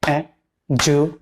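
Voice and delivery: e-ju-cation split into syllables; syllables spelled out. Shown as a demonstration. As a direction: break e-ju-cation into its parts. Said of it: "They are".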